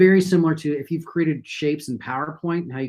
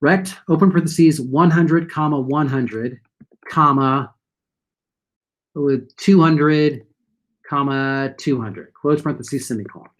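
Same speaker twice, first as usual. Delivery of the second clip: dictating. Shown as a demonstration. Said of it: "So what we're gonna say is".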